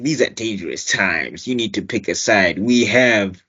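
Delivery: low, measured warning; a hint of a stern king threatening; lightly voiced T'Challa. Host quoting T'Challa warning Cap at the border, low and measured. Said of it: "my favorite line was".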